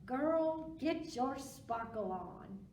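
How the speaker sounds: a touch of sassy cheer. Acted. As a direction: cheer her on from the wings. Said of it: "Otis cheered her from the wings".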